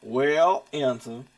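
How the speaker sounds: southern drawl. Acted. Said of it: "put on my southern drawl".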